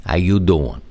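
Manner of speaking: lightly imitated Philly greeting; a hint of a Philadelphia accent. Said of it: "as my friends in Philadelphia would say".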